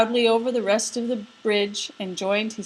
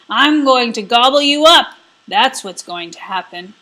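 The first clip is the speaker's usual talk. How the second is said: troll threatening the biggest goat; troll threat; 2 semitones higher, 9 dB louder than usual. Acted. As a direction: boast like a greedy troll.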